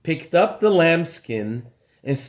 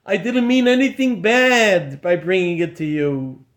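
pleading; 3 semitones higher than usual. Acted. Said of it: "began to beg for mercy".

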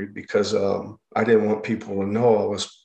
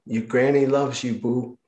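lightly imitated Cajun grandmother; a touch of Cajun in a granny's reassurance; Cajun accent. Granny to grandchild in her lap, light Cajun accent. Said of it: "in this Cajun accent".

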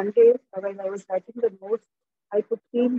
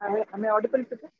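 distant, faint voice off the mic; speaking too far from the microphone; 4 dB quieter, faster than usual. Real, not acted. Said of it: "come closer to the mic because can't hear you clearly".

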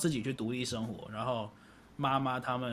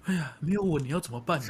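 worried parent. Retold or imitated. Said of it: "他们当下的心情一定是".

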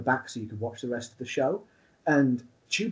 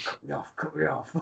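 whispered cue; 6 dB quieter than usual. Retold or imitated. Masked partner whispering mid-match cue.

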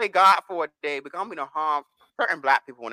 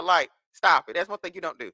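ordinary talk, nothing marked

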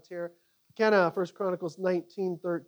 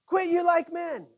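rallying call; 10 semitones higher, 5 dB louder than usual. Acted. Preacher proclaims scripture rallying cry.

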